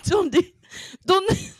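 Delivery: very high, loud mock-Spanish cry; Spanish accent. Shown as a demonstration. Host getting into character on request, high exaggerated Spanish accent. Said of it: "can we get a Spanish accent".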